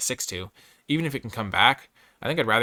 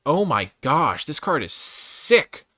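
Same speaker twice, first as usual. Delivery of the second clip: excited; 5 semitones higher, 5 dB louder, much slower than usual. Real, not acted. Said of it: "excited about card".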